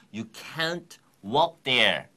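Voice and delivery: very slow, each word separated; slow teaching phrase; very slow phrase demo. Shown as a demonstration. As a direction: break the phrase apart for learners. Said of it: "걸어서 갈 수가 없다".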